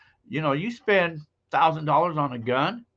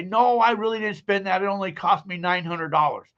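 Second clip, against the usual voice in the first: higher mock teasing; joking reveal; 6 semitones higher than usual. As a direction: let her off the hook lightly. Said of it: "she'll go off and on and say".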